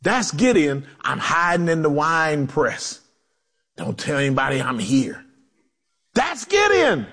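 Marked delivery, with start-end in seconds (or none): 1.0-5.2 low, hushed voice of someone hiding; lightly acted fear, kept low and secretive; fearful hiding. Gideon hiding in the wine press, fearful and hushed. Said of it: "he was afraid".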